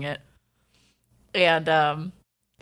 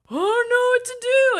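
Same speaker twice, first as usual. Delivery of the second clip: panicked neighbor lady. Retold or imitated. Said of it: "And this lady's like".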